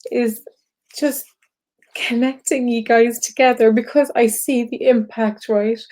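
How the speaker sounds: moved, pausing to hold it together; real tearful emotion. Real, not acted. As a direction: push the explanation out through tears. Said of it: "I guess I'm crying because".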